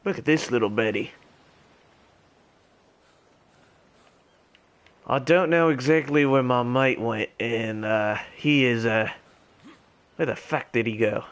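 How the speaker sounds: put-on gamer holding a posh English RP accent. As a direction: stay in a lightly done British RP voice. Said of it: "I should have chosen a different accent for my, for my R P character".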